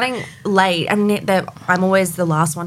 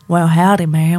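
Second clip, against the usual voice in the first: put-on a singer's American country accent. Country star obliging a fan's request, imitated American country accent. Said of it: "in your beautiful accent".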